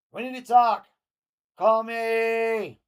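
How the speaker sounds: high, loud desperate yelling; shouted text. Acted. Host reading JD's exclamation-point texts as a high desperate scream. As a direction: scream every line like a desperate ex. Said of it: "Exclamation point".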